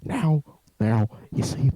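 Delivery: low ASMR president impression; halting, low presidential murmur; Obama. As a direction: lean in low like an ASMR statesman. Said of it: "A S M R Obama".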